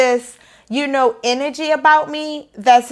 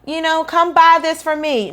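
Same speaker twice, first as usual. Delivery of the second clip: higher, mock begging sales pitch; mock pushy plea; 5 semitones higher than usual. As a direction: play the gimmicky seller asking for money. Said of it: "not to try to put a plug in or be gimmicky".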